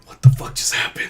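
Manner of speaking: hushed whisper of shock; whispered disbelief. Retold or imitated. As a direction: whisper it, stunned in the bathroom. Hearing glass break, retold.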